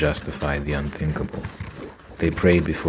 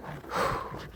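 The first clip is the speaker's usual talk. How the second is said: emotional sigh; 10 dB quieter than usual. Real, not acted. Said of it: "This is making me emotional".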